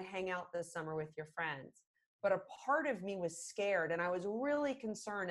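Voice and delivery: gently de-escalate as a parent; calm, reassuring demo of firm but kind parenting; calm understanding parent. Shown as a demonstration. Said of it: "But if I say to you".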